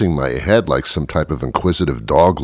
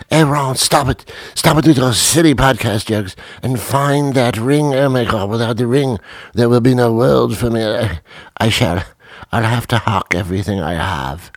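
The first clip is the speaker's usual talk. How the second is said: higher, pleading groom voice; mock frantic groom; 6 semitones higher than usual. Groom scolding his friend to find the ring, higher pleading voice. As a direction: beg him to find the ring. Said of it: "Harry scolds Ron".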